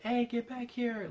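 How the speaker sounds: high, drawn-out mock yell; stretched-out yell imitating an angry pursuer; imitated scream. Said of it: "like, like, screaming like".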